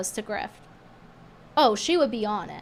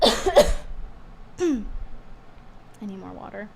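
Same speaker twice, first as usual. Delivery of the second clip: losing voice; 3 semitones lower, much slower than usual. Real, not acted. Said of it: "I'm losing my voice a little bit".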